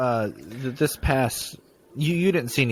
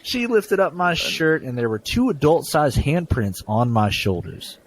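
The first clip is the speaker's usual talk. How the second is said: story reading. Acted. Continues reading the ghost story.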